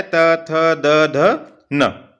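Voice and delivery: त थ द drawn out slowly; slow dental letters; dental letter drill. Shown as a demonstration. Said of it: "त वर्ग यहाँ पे दिया है".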